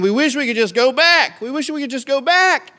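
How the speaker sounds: high, loud whine; complaining crowd pleading for Egypt, high and whiny; whining Israelites. Retold or imitated. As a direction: beg to go back in a mock whine. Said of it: "And they're saying".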